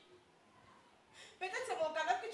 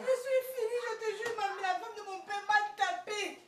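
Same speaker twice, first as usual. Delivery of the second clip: crying on the phone; slower than usual. Acted. Daughter cries on the phone.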